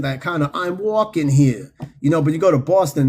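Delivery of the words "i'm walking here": slightly drawn-out New York accent. Shown as a demonstration. Streamer showing the old New York accent, stretched New York accent. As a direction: lean into a New York "walking here". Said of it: "kind of New York accent".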